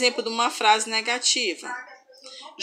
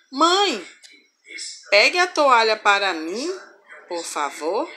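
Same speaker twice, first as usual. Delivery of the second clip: calling out. Shown as a demonstration. Example of calling someone.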